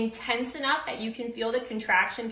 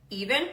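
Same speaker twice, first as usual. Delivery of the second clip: even exhale. Shown as a demonstration. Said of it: "the example of it being even".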